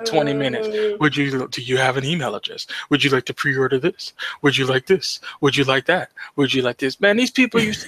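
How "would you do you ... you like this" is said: rote clerk upselling, lightly voiced; mock sales pitch. Clerk mocking the upsell script customers hated. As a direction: rattle off the pitch like a bored clerk.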